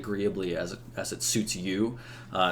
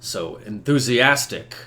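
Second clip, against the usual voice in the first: slow, understated knightly reproach; lightly voiced weary put-down; chiding knight; slower than usual. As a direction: chide an over-eager companion, slowly. Green knight chides the eager red knight.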